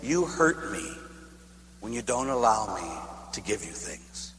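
hurt grandmother. Retold or imitated. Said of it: "And she said to me".

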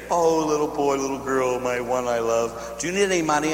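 lightly voiced doting grandma, coaxing; a hint of a grandma offering money, slowing on my one I love; sweet grandma voice. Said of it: "When you sit there and say".

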